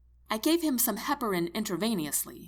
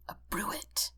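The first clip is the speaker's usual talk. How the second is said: hushed whisper to oneself; 8 dB quieter than usual. A narrator's reading. Medic realizes what the heartbeat sound is, whispering. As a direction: whisper the diagnosis aloud. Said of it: "I whisper out loud".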